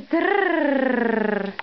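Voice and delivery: slow rolling drrr sound; giraffe noise. Pretend. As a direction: roll it out slowly. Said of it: "it says".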